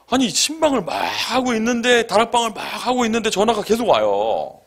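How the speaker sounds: high-pitched, rushing exasperation; exasperated complaint. Retold or imitated. Preacher telling of calls during home visits, exasperated complaint.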